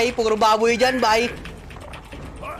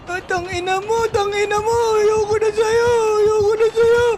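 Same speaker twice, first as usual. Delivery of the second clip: higher, repeated wailing complaint; panicked whining; 5 semitones higher than usual. Real, not acted. Player fed up with being chased, high whining panic. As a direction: whine it at the pursuer in fright. Pleading with pursuer in game.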